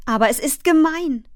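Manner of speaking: put-on high, upset child's protest; protesting cry. A narrator's reading. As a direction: object passionately, pitched well up. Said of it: "schrie Fern". (aufgebrachter, hoher Protestruf)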